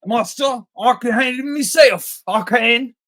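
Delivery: high, loud cocky boast; blustering Holly. Retold or imitated. Mocking a film character's bluster before she panics, high blustering voice. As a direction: put on a high, blustering show of confidence. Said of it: "all her bluster is like".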